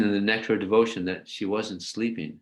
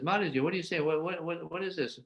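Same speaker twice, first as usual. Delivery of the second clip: puzzled mother; 9 semitones higher, 6 dB quieter, faster than usual. Retold or imitated. Yasoda answering the door.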